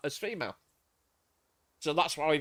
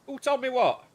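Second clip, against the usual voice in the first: raised, louder retold bafflement; baffled exclamation; 7 semitones higher, 4 dB louder than usual. Recalling how he reacted to his girlfriend, a baffled outburst. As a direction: blurt it out in disbelief.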